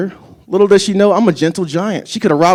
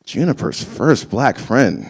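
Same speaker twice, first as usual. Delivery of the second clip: stunned disbelief; 4 dB quieter, slower than usual. Retold or imitated. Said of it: "I was just like".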